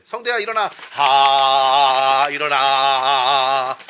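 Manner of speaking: loud, drawn-out wake-up call; waking someone up. Shown as a demonstration. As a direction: shout to wake a sleeper. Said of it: "그 자는 사람 깨우는 느낌처럼".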